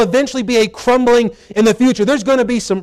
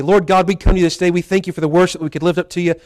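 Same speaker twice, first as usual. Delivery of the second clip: steady, earnest prayer voice, a little lower; public prayer; 3 semitones lower than usual. Acted. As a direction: pray aloud for the whole church. Leads the congregation in prayer.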